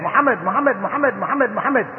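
name repeated in a rapid unbroken string; insistent looping call, each ending on a rise; repetitive name-calling. Retold or imitated. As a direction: mimic someone calling a name over and over. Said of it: "keep repeating it, your name over and over".

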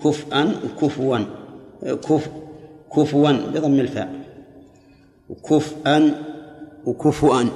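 كفءا, كفوا and كفؤا each said slowly and apart; three readings. Shown as a demonstration. Teacher confirming the readings for a student, slow and deliberate. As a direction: spell out the three readings one by one. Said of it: "ثلاث قراءات".

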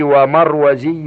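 ومروزي with a "z" before the ending, marwazi; added zay. Shown as a demonstration. Reader lists irregular nisba forms, ومروزي with added zay. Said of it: "بزيادة الزاي".

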